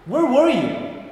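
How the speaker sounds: God's questions. Shown as a demonstration. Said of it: "as if God asked you personally".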